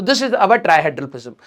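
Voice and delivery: slow, drawn out dictation; slow because of a sore throat; speaking slowly. Shown as a demonstration. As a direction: take it word by word. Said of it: "मैं धीरे धीरे इसलिए बोल रहा हूं".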